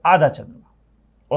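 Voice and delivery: आधा चंद्रमा drawn out slowly, each syllable clear; slow, deliberate. Shown as a demonstration. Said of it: "इसको हम बोलते हैं".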